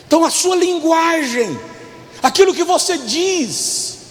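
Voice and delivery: emphatic preaching, drawn-out key words; pregação enfática. Real, not acted. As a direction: preach it out slowly and forcefully. Preaches at full force. (pregação enfática e pausada)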